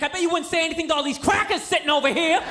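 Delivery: a touch of retold outrage; flipping out. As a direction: imitate an aggrieved passenger calling people out. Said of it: "starts flipping out".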